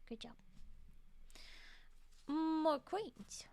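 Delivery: soft whispered aside; whispering. Real, not acted. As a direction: breathe it out under your breath. Whispering to self.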